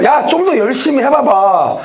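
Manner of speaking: 가볍게 놀리는 말투로, 살짝 흉내 내듯; 상대를 비웃는 듯 툭툭 던지기; 조롱하듯. Retold or imitated. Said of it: "막 이렇게 조롱을 했었어요". (엘리야가 바알 선지자들을 가볍게 놀리는 흉내)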